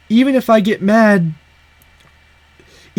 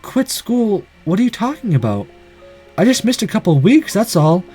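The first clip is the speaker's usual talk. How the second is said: puzzled; 2 semitones higher than usual. Acted. Shiro voiced, puzzled by the question.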